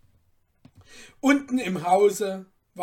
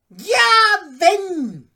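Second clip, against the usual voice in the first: much higher, louder harsh interruption; cutting in; 13 semitones higher, 13 dB louder than usual. Acted. Merchant interrupting the cutler, harsh. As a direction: cut him off sharply. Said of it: "unterbrach ihn gleich der Kaufmann".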